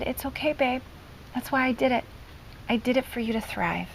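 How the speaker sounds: retold reassurance. Mom comforts her crying son, retold gentle reassurance. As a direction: gently soothe an upset child, softly.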